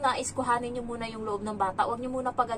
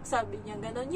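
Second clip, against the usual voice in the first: normal talking voice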